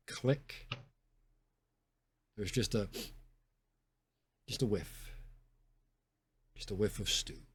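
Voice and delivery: low, soft scene-setting; game master narration. Acted. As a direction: set the scene quietly and unhurriedly.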